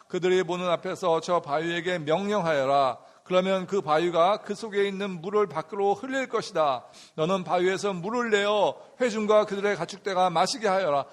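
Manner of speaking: measured congregational Bible reading; scripture reading. Acted. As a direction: read the verse aloud in unison style. (성경 봉독하듯)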